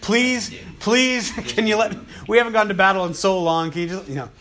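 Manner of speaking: high, loud, itching to fight; a warrior begging his king to let him strike, eager; eager pleading. Retold or imitated. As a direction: beg like a soldier straining at the leash. Abishai begging to kill Shimei.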